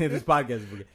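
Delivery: fast, laughing echo; laughing repeat. Pretend. Host echoing his cohost's joke, laughing fast.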